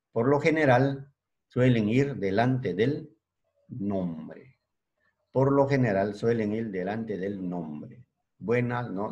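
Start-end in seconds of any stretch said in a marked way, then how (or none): 0.1-4.6 slow dictation pace; dictating slowly. Shown as a demonstration. 5.3-8.0 slow dictation pace; dictating slowly. Shown as a demonstration. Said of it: "dictation repeated".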